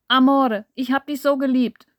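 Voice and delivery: loud, high grieving cry; theatrical grief. Acted. Massimo mourns his lover with his head on the table, theatrical grief. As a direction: overplay the heartbreak. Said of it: "Es wirkte theatralisch und gleichermaßen echt".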